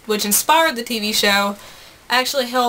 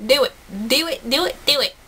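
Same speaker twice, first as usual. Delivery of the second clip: put-on teasing southern accent; 2 semitones higher than usual. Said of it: "Or I'll keep talking in my terrible southern accent".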